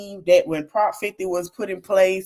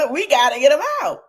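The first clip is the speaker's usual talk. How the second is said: laughing repeat; 6 semitones higher, 5 dB louder, much faster than usual. Real, not acted. Repeats call while laughing.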